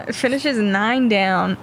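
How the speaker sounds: slow, laughing through it. Real, not acted. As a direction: chuckle while announcing the score. Laughs while calling finish.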